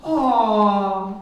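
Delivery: lightly put-on white man voice; a hint of mimicked white-man talk; mock white man. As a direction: imitate a white man, briefly. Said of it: "that's the white man".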